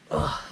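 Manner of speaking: short exasperated groan; exasperated little grunt; disgusted ugh. Real, not acted. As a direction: let out a brief ugh of disgust. Reaction after falling into traps.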